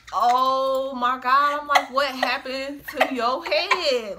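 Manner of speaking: slow, drawn-out shock; stunned at his head; gasping disbelief. Retold or imitated. Seeing his wounded forehead.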